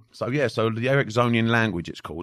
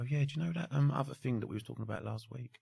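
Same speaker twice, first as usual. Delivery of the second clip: voice brought down; 3 semitones higher, 8 dB quieter than usual. Retold or imitated. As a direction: draw the listener in by dropping your voice. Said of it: "I'd bring my voice down and go".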